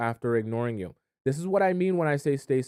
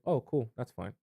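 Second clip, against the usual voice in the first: unbothered; 6 dB quieter than usual. Shown as a demonstration. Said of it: "I want you to say".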